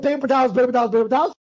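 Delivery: lively, assured listing of the decoy; confident repetition. Retold or imitated. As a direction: run the repeats together, sure of the trick. Boasting of his decoy trick.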